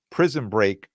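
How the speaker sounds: ordinary talk, nothing marked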